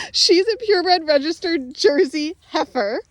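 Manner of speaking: "heifer" said through a light laugh, voice up; laughing correction. Real, not acted. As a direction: correct the word "heifer" while laughing at yourself. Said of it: "like I was trying to say".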